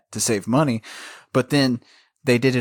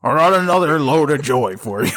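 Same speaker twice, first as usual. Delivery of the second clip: laughing tease; 4 semitones higher, 6 dB louder than usual. Real, not acted. Teasing gross joke.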